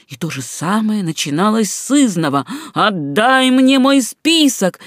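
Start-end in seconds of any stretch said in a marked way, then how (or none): 2.7-4.8 slow, high, furious devil's shriek; seething shrieking spirit. Acted. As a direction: drag it out like a raging demon. Погоня повторяется снова. (злобный визг дьявола)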